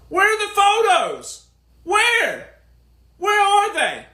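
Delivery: high, insistent where-are-they; demanding. Real, not acted. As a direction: press hard for the photos. Demanding proof, rhetorical.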